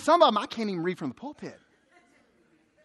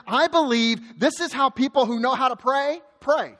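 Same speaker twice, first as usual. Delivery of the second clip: usual speaking voice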